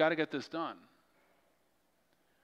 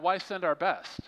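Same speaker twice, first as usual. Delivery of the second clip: higher-pitched sarcastic question; 4 semitones higher, 3 dB louder, slower than usual. Acted. Preacher mocking reluctance to send missionaries, sarcastic. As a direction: ask it as mock objection. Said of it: "That was sarcasm".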